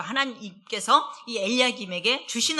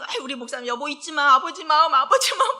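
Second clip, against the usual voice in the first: rising higher and louder, teasing singsong; playful coaxing; 6 semitones higher, 5 dB louder, faster than usual. Retold or imitated. Wife playfully reminding her pastor husband, teasing and rising. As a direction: coax him playfully, climbing in pitch. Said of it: "제가 늘".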